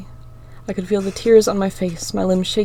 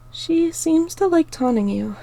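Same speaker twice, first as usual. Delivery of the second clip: higher, gentle remark; softly; 10 semitones higher, slower than usual. Acted. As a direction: speak gently to a hurting friend. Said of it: "Star said softly".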